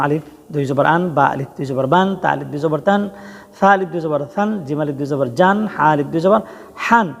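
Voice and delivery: letter-by-letter drill ending each item on a clear "-an", as in "জান", "হান"; tanween pronunciation demo. Shown as a demonstration. Teacher shows learners how tanween sounds, pronunciation demo. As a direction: spell each letter, then land on "আন", "বান", "তান" with the same -an ending. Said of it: "সবগুলো হরফে তানবিন একই উচ্চারণ হবে".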